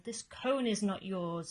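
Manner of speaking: mild protest. Acted. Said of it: "cried Cyril".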